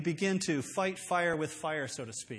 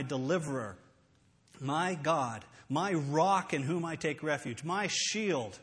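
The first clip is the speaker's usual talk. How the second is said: declaimed psalm; slower than usual. Shown as a demonstration. Demonstrates reciting a psalm against fear.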